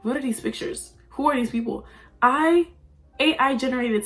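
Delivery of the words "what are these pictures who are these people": viewer's mock outburst. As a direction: throw it out like a baffled viewer. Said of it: "if you're like".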